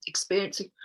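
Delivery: mid-yawn. Real, not acted. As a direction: say it while yawning. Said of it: "God, it always makes me yawn".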